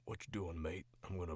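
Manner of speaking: rough, lightly voiced Northern British tough. Shown as a demonstration. Voice actor half-attempting the accent while sick, tough Northern British. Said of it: "really good Northern British".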